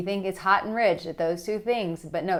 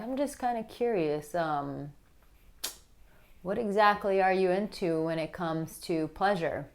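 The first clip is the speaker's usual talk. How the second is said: reserved sensual; 4 dB quieter than usual. Shown as a demonstration. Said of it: "it's super reserved".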